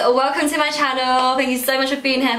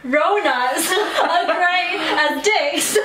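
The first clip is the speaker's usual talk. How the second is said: slow, laughing through a mouth guard; mouth propped open; 5 semitones higher, much slower than usual. Real, not acted. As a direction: laugh and mangle the words. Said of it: "so hard to say".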